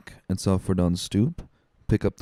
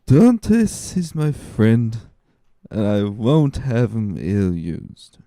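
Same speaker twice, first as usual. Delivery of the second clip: put-on drunken insistence; 2 semitones higher, much slower than usual. Drunk Caderousse insisting to Danglars, slow and slurred. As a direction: plant your feet and slur it out.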